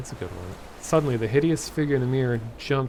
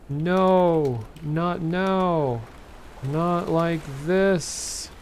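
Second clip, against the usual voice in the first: raised, higher cry of protest; mild acted shout; 5 semitones higher, much slower than usual. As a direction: cry out in protest, drawing the words out. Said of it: "she shouted".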